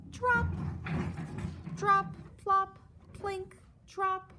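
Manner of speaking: dripping sounds. Acted. Drops landing, sound effect.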